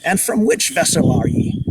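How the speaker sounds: loud seafarer's interrogation; barked question. Acted. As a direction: bark it like a suspicious castaway. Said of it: "the man barked".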